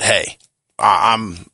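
strained, hoarse voice giving out. Real, not acted. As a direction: voice cracking from a sore throat. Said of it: "my voice is killing me".

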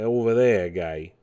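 put-on Brooklyn accent. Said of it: "New York, Brooklyn type accent".

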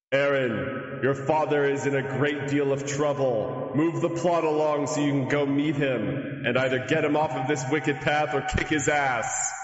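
lightly voiced divine proclamation; goddess voice. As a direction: speak like a goddess from above. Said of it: "a divine voice rings out".

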